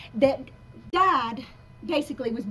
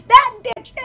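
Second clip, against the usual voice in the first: very loud high snarling beast; 12 semitones higher, 16 dB louder than usual. Retold or imitated. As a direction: let the beast spit it out. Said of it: "this beast back here said".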